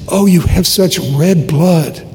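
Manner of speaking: slow, drawn-out admiring reassurance; encouraging principal. Retold or imitated. Principal to a bleeding five-year-old, slowly encouraging. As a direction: distract a hurt child with slow, marvelling encouragement. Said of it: "trying to distract me a little bit, encourage me".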